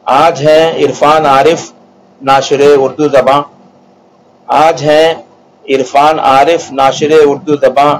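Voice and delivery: verse recitation. Acted. Poet recites praise verse.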